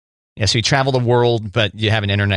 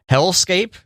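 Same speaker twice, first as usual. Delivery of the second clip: incredulous echo; 9 semitones higher than usual. Real, not acted. Incredulous echo after laugh.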